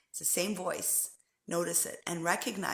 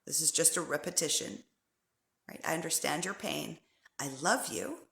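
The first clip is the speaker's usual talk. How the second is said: soft, gentle self-soothing; loving self-talk; 3 semitones lower, 3 dB quieter than usual. Shown as a demonstration. Comforting her own inner critic, soft and gentle. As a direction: pour love on the hurt with quiet kindness. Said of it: "you pour love on it and you say".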